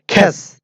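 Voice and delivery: "খ্যাস" with a strongly aspirated kh; correct pronunciation. Shown as a demonstration. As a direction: puff of air opening "খ্যাস". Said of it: "Just তোমরা বলবে".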